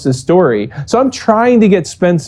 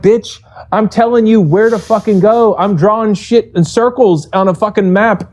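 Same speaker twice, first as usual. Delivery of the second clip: higher-pitched heated comeback, retold; retelling an indignant outburst at the critic, pitched up; heated retort; 5 semitones higher than usual.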